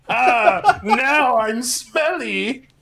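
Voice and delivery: laughing. Pretend. Playing stinky Eggman.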